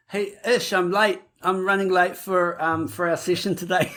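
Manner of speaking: light, amused impression of the co-host; imitating the co-host. Shown as a demonstration. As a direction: mimic your co-host through a slight laugh. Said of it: "You now try and sound like me".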